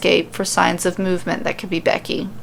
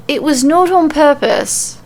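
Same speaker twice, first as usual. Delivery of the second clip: sincere; 6 semitones higher, 3 dB louder than usual. A narrator's reading. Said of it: "She sounds sincere enough".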